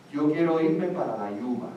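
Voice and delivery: put-on a light child's voice, listing what he won't become; a kid rattling off jobs he doesn't want; voicing a Cuban kid. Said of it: "makes little kids say".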